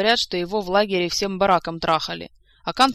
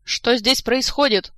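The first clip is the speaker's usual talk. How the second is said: loud, slow, raised-pitch roar of command; barking colonel; 6 semitones higher, 8 dB louder, slower than usual. A narrator's reading. Colonel bursts in on a brawl, barking angrily. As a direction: bark it out like an officer. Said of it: "с порога рявкнул полковник Сур".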